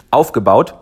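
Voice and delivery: strained after choking on spit; choking on saliva. Real, not acted. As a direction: push the word out after swallowing wrong. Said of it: "Ich hab mich grad verschluckt".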